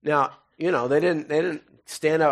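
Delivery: ordinary talk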